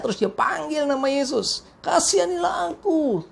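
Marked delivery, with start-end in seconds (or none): 1.8-3.2 high-pitched imitated plea; crying out. Blind beggar begging Jesus for mercy, imitated crying out. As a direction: plead in a raised, beggar's cry. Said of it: "Terus dia berteriak".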